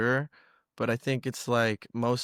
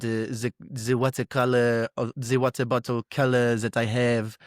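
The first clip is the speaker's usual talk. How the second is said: a light, hammed-up French accent, slow in places; mock French accent. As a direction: pretend to be a French forum poster, in a French accent. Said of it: "maybe he's French".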